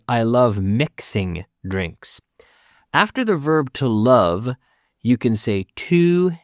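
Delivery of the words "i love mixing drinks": slow model sentence. Shown as a demonstration. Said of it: "you could also say".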